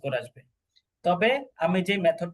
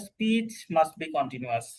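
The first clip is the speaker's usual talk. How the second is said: slow read-out; much slower than usual. Shown as a demonstration. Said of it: "তো এখানে দেখেন".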